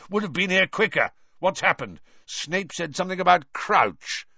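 hurried gruff auror voice; gruff Moody. A narrator's reading.

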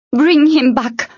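high, insistent demand; urgent demand. Acted. Tern to the troll who took Hessler, urgent demand.

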